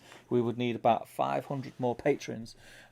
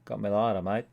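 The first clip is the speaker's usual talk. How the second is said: put-on Australian accent. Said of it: "he's doing an Australian accent".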